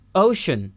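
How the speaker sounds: اوشن with the C said as SH; SH sound. Shown as a demonstration. Teacher answers which sound C gives, SH in اوشن. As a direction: say اوشن as OH-shun. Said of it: "یہاں پر سی کیا آواز دے رہا ہے".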